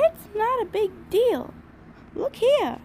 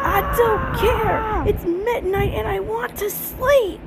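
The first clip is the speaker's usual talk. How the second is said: grumpy shout; 4 dB louder than usual. Acted. Tired pony refuses to get up, loud and grumpy. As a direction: shout it, fed up and sleepy.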